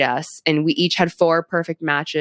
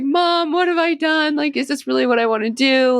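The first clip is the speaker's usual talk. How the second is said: imitated panic; 10 semitones higher than usual. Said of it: "I was, like, so emotional".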